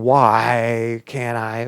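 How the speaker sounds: very drawn-out "why" as a complaint; slow, protesting declaration; stating why. Shown as a demonstration. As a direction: stretch it into an arrogant statement. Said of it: "but stating".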